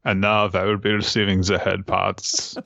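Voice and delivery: put-on formal voice for a dog; mannered, measured canine gentleman; dignified dog voice. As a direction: play the dog as a stately gentleman. Voices the dog's thoughts.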